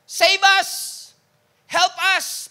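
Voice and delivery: shouted high and loud, pleading; desperate crowd cry. Retold or imitated. Preacher voicing the desperate crowd, a loud pleading shout. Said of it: "should be translated as".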